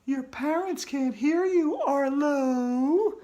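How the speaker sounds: high, eerie ghost voice; taunting ghost. Acted.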